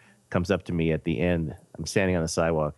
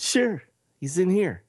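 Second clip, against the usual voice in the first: higher, drawn-out easy agreement; lightly imitated friend; 11 semitones higher, 3 dB louder than usual. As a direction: lightly act out a breezy yes, pitched up. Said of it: "He goes".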